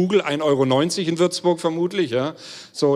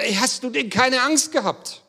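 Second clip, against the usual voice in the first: curious question; 9 semitones higher than usual. Retold or imitated. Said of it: "wurde gleich gefragt".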